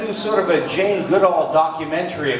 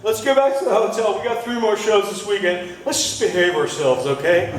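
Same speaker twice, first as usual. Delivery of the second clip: lightly voiced reasonable drunk, a bit higher; calm, sensible beer talk, slightly raised; sober promise; 5 semitones higher than usual. Comic to the crowd, a hint of a tipsy guy being sensible. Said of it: "it's literally like".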